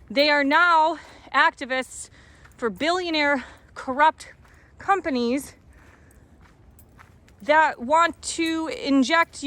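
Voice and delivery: out of breath from walking uphill; breathless, gasping between phrases. Real, not acted. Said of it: "Sorry, I'm out of breath".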